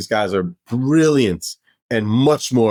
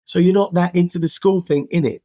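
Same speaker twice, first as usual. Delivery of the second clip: a touch of British teasing, pitched much higher; Dave's punchline; 8 semitones higher than usual. Retold or imitated. Dave calls out Derek's schooling, cheeky high British tease. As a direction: land the gotcha with a cheeky innit.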